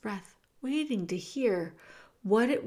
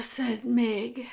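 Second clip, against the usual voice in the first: ordinary delivery, nothing marked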